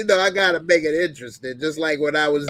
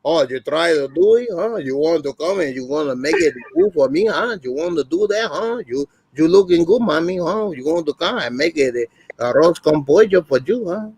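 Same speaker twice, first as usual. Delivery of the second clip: lightly put-on Puerto Rican man's accent. Doing the Puerto Rican man to make friends laugh, light accent. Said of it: "If I do the man, I go".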